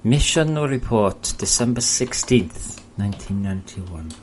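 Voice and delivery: slow, half-hearted Russian accent attempt; a barely there Russian accent, read slowly like a mission briefing; weak Russian accent. Gamer reading a Red Alert style mission report in a faint Russian accent. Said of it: "Can't really do the accent".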